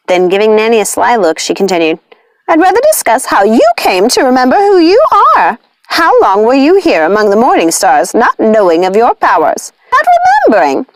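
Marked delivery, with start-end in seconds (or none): 2.5-10.9 high, sly witch voice; sly taunting witch. A narrator's reading. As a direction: tease Nanny about her memory. Lucinda's sly taunting of Nanny.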